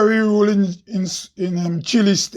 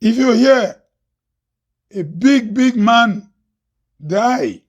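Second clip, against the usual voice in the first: measured spoken-word delivery, line by line with long pauses; declaimed poem, key phrases lifted; poem recital. Acted. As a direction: recite each line deliberately, leaving space after it.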